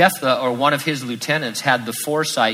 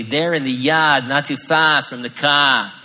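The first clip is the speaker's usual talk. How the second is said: 1 sarcastic reply; 4 dB louder than usual. Retold or imitated. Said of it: "he replies sarcastically".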